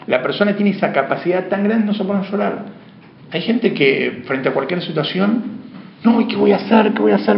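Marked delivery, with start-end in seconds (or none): 6.0-7.4 high, louder mock despair; mock panic. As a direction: act out someone losing it. Quoting a panicking person. (pánico fingido, agudo y más fuerte)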